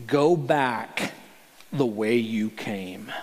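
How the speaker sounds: low whispered command; soft voice of God. Acted. God telling Elijah to go back, whispered. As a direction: breathe the words in a hush. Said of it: "Then the Lord told him".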